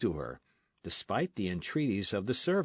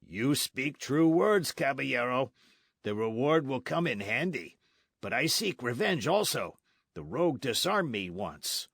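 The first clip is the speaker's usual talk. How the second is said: lightly voiced blunt soldier; a hint of a swaggering sergeant; sergeant Gonzales; 3 semitones higher than usual. Sergeant explaining the chase to Don Diego, lightly voiced.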